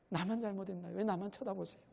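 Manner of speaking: 나만 said softly, broken and hushed; quiet lament. Retold or imitated. Job sinking into a quiet plea to God. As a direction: let 나만 fall to a soft, wounded murmur.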